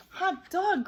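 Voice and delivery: high, loud cheer; a loud, high, gleeful exclamation; cried out with joy. A narrator's reading. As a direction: whoop it like delighted kids. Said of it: "cried the kids".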